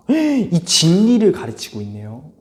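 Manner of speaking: slow, breathless awe; gasp, then marvel at the truth; a teacher hamming up a starry-eyed fan; awestruck believer. Acted. Functionalist awed by textbook.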